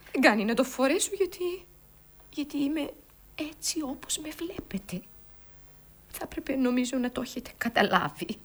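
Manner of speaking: subdued, hesitant confession. Acted. Acted scene, woman revealing mourning.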